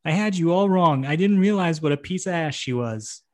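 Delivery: lightly voiced wife, a bit high; Carmela. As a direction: raise the pitch a touch for a wife's confession. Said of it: "Sounded just like her".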